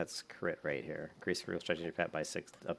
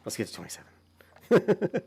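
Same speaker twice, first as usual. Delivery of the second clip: higher, louder, slow mock rallying call; playful overdone hype; hammed-up cheer; 13 semitones higher, 8 dB louder, slower than usual. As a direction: stretch it out like a big announcement. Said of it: "That's how much I celebrate my leveling".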